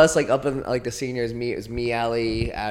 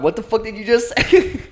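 mock outrage; 11 semitones higher, 7 dB louder than usual. Playing her shocked reaction.

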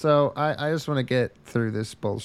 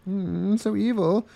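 hammy evil voice, rising higher; mock cackling villain; unhinged villain; 7 semitones higher than usual. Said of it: "the evil voice where I go".

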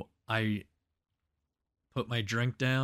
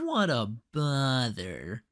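slow, lightly put-on weary sigh of a line; halal cart guy; 2 semitones higher, slower than usual. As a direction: say it like a mild sitcom complaint. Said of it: "he was like".

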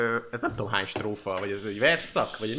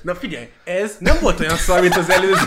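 loud, high jury outburst with laughter; mock verdict; 8 semitones higher, 11 dB louder than usual. Panelist judges a friend's joke song, mock outraged. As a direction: deliver an exaggerated verdict at full volume.

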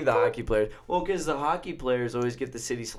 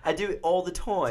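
put-on British accent; 5 semitones higher than usual. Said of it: "That noise that's coming out".

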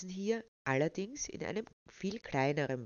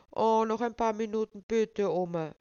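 put-on high, pleading child voice; pleading little girl; 5 semitones higher, 6 dB louder than usual. A narrator's reading. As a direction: beg like a small child. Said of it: "flehte Walda".

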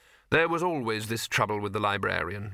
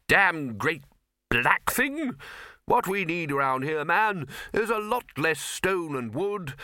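higher, drawn-out blustering complaint; blustering Arch-Chancellor; 5 semitones higher, slower than usual. Acted. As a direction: hold forth like an opinionated master. Arch-Chancellor demands jollier decor.

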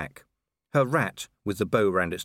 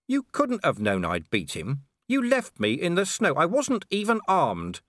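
higher, heated accusation, slowing at the end; Vimes accusing; 9 semitones higher than usual. Acted. Vimes furiously reproaching the vampire lady, higher. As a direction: let the anger rise.

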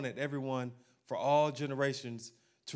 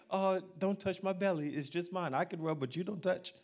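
protective pregnant woman; 3 semitones higher than usual. Retold or imitated. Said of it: "she's like".

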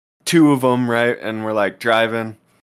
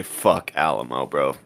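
mock warning; 3 semitones lower than usual. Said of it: "this is where we say".

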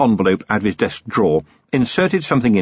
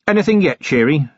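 raised, hopeful question; 7 semitones higher than usual. A narrator's reading. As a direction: ask it higher, with hope. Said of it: "he said, hopefully".

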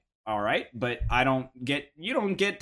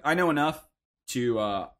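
holding back a burp; talking through a half burp; burping the words. Real, not acted. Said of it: "I have, like, a half burp coming out".

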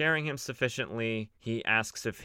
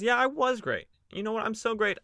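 boastful Superman; 12 semitones higher than usual. Retold or imitated. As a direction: gloat like you own the room.

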